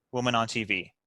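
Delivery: ordinary talk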